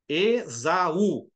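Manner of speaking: "Esaú" with A and U kept apart; split into syllables. Shown as a demonstration. Teacher giving a hiatus example, "Esaú" broken into syllables. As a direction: pronounce "Esaú" syllable by syllable, U on its own. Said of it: "cada um numa sílaba diferente".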